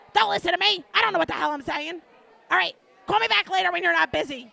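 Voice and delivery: lightly voiced flustered friend; loud flustered friend. Friend backpedalling on the phone.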